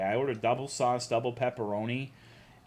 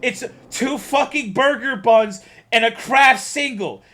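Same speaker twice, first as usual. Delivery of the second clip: much higher and louder, near shouting; exasperated yell; 11 semitones higher, 10 dB louder than usual. Real, not acted. Ranting at chat about meatless burgers, yelling. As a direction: shout it in disbelief. Ranting at chat's vegetarian take.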